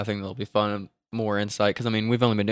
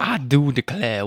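slow, lightly put-on drawling accent; amateur accent, stretched and mock-grand; attempted drawl accent. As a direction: draw out the vowels in a hammy accent. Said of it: "I don't do accents".

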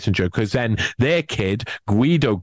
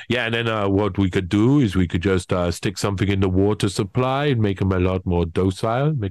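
Herman Kahn impression; 3 semitones lower than usual. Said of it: "That's such a good Kissinger".

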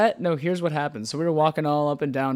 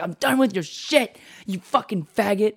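mock angry woman; 6 semitones higher, 4 dB louder than usual. Acted quarrel of homeless couple.

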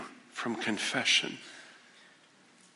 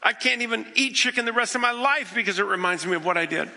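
rueful joke; 8 semitones higher, faster than usual. Acted. Peter's rueful joke about chickens.

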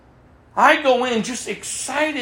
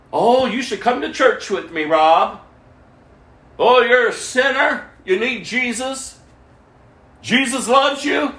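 mock preachy. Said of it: "I used to mock them".

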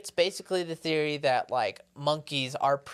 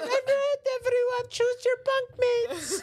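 camp counselor voice. Retold or imitated. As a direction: play the chirpy camp leader addressing everyone. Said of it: "And you're like".

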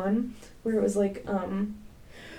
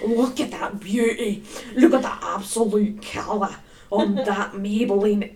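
put-on Scottish-ish accent; 3 dB louder than usual. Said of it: "from Australian to Scottish".

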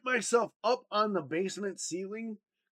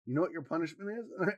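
dead cold; 4 dB quieter, faster than usual. Retold or imitated. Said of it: "She got dead cold".

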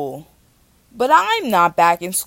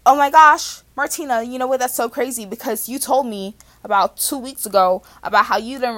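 hammed-up therapist; 3 semitones higher, 6 dB louder than usual. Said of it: "she doesn't say it like this".

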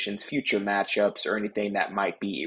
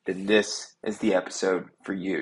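echoey room sound; recorded in an echoey office; echoing tunnel. Real, not acted. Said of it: "why do you sound like you're in a tunnel".

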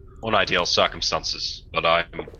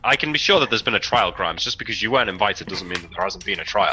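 stern captain. Acted. Captain firmly correcting the prisoner.

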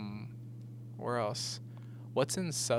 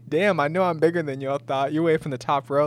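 lightly imitated stand-up entrance, louder; Lavelle Crawford; 3 semitones higher, 6 dB louder than usual. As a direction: boom it out like a comic greeting the crowd. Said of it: "when he came out and he's like".

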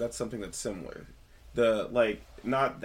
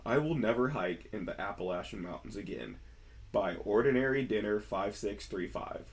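storytelling voice. Shown as a demonstration. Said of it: "storytelling voice for realsies this time".

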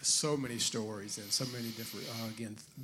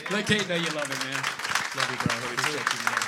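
loud; 9 dB louder than usual. Real, not acted. Host calls out to guest.

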